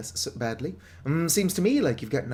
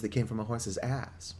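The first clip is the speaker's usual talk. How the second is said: whispered punchline; 3 semitones lower, 5 dB quieter, slower than usual. Real, not acted.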